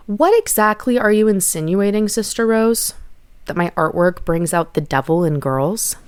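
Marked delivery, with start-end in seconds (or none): 0.1-2.9 louder, pointed challenge with a lifted edge; defiant challenge. Retold or imitated. Girl confronting Sister Rose, defiant and louder. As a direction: push back at the nun, daring her to answer. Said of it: "Perhaps it was my tone".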